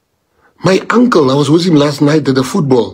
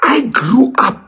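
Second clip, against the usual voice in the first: crying; 9 semitones higher, slower than usual. Real, not acted. A mixed-race man recalling his childhood, crying. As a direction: voice breaking high on the words. Emotional speech about identity.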